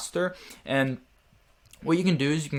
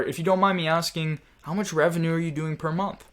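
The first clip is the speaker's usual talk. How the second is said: raised, gently curious question; inquisitive tone; 4 semitones higher than usual. Shown as a demonstration. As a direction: lift the voice and keep it harmless. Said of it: "that was with a different tone that was non-threatening".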